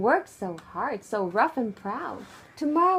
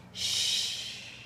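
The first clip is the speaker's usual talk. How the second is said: whispered shh; 7 dB quieter than usual. Real, not acted. Final goodnight.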